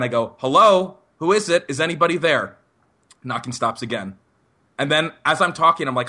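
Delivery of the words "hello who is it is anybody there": raised call through a door; mock yell, easing off toward the end; retold yell. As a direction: call out, louder and higher at first. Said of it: "I yell out again".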